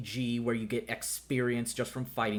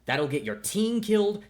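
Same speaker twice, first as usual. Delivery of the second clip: stern warning; 9 semitones higher, 5 dB louder than usual. Acted. Angry mentor lecture.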